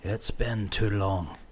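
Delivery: a hint of a frail grandfather; weary old grandfather. A narrator's reading. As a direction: speak slow like a tired old man.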